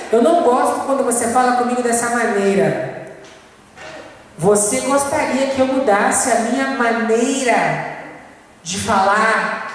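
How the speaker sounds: slowed right down, leaning on eu; slow, deliberate repeat. Shown as a demonstration. Wife slowly repeating the question back to her husband. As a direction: spell it out gently, word by word, leaning on eu. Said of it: "ela repetiu".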